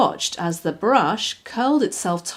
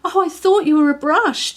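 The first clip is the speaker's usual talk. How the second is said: chuckling; 8 semitones higher, 6 dB louder than usual. Acted. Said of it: "chuckled Scamper".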